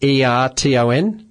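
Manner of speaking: slow, letter by letter, each letter separate; spelling out a name. Shown as a demonstration. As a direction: spell it out clearly for the caller. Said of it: "Please spell her name again".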